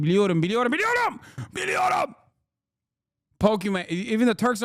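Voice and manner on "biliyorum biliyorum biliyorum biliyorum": a sudden much higher whiny I know; mock whine. Answering Turkish mockers, high whiny. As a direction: squeak it out defensively.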